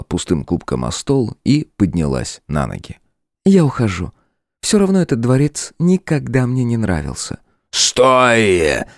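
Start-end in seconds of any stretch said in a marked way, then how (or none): 3.5-7.4 высокий, ровный голос демоницы; холодно отвечать господину; демоница Лилиан, спокойная. A narrator's reading. Демоница уходит от короля. 7.7-8.8 громко и коротко; рявкнуть ей вслед; рявк. A narrator's reading. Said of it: "рявкнул демонический король".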